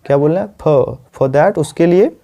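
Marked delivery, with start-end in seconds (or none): 0.5-1.0 "for" said as short "fuh", r dropped; r-less FOR. Shown as a demonstration. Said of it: "इसको ये मैं for नहीं पढ़ रहा हूँ". ("for" का उच्चारण बिना र के, छोटा "फ")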